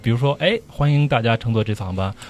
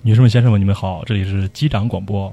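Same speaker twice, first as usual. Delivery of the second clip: pilot announcement voice. Acted. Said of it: "熟悉的声音啊".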